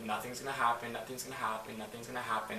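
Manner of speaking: soft, repetitive murmur to oneself; self-soothing mutter. Retold or imitated. Lying with eyes closed in the game, muttering to herself. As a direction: retell a hushed self-reassurance.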